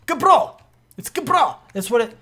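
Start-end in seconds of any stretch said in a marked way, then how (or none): 0.1-0.6 high-pitched, loud put-on foreign accent; exaggerated accent on the word Gabro. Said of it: "I feel like I have to say it with an accent". 1.0-1.6 high-pitched mock foreign accent; hammed-up accent on Gabro; put-on accent. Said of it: "I feel like I have to say it with an accent".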